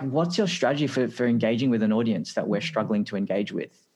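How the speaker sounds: amateur imitation of an American executive; poor US accent. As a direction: put on a not-quite-right American accent. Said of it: "I know that was a poor U-, U S accent".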